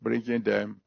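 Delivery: earnest spoken prayer. Real, not acted. Preacher thanking God for those surrendering, in prayer. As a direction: pray to the Father, steady and sincere.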